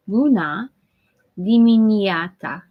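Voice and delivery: attempting Romanian greeting with Italian-French flair; mock Italian-French accent. Shown as a demonstration. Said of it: "part Italian, part French accent".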